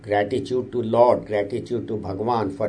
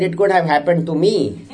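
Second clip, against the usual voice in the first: punchline; 6 semitones higher, 4 dB louder than usual. Retold or imitated. Joke punchline from the speaker.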